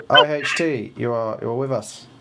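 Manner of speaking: ordinary talk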